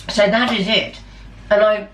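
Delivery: talking through a mouthful of food; mouth full. Real, not acted. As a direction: speak round a bite of food. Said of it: "sorry speaking with my mouth full".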